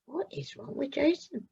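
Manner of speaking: hushed, worried whisper to herself. A narrator's reading. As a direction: breathe the question out in a whisper. Mum's worried private thought.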